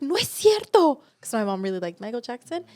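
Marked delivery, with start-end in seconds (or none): 0.0-1.0 high, loud shocked denial; mock incredulous mother; mom's disbelief. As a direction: gasp it out like a stunned mom.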